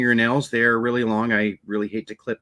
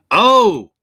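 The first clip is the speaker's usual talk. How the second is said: surprised; 8 semitones higher, 8 dB louder than usual. Real, not acted. Exclaims at success.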